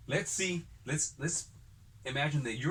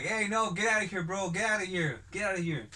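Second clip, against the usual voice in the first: put-on raised voice shooing off a drunk, fading down; shooing him away; 5 semitones higher than usual. Narrator yelling at a drunk at his door to leave. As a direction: call out to get rid of him.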